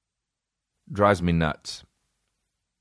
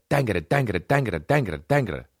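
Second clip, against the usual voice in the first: nonsense joke babble; faster than usual. Retold or imitated. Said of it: "The jokes that they have, it's like".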